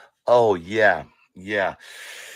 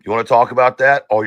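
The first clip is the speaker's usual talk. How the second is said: taunting; 2 semitones higher, 6 dB louder, faster than usual. Real, not acted. Taunting challenge to Brittany.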